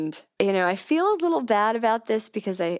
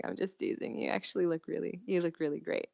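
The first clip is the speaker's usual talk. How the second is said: soft retold reassurance; 9 dB quieter, faster than usual. Retold reassurance after teasing.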